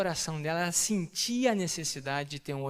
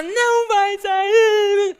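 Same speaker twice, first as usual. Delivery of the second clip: high, drawn-out mocking whine; mock nagging voice; 12 dB louder, much slower than usual. Mocking the family who won't let him out, whining. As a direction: stretch it out like a nagging relative.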